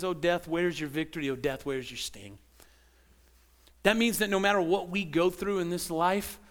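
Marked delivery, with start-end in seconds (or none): 0.0-2.4 lowered, softening taunt at death; triumphant Jesus. Retold or imitated. Preacher voices risen Jesus mocking death, lower and fading soft. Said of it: "he looks and he says".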